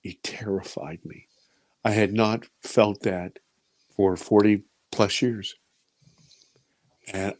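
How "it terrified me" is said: breathy confessing whisper. Real, not acted. Telling the audience his terror, whispered.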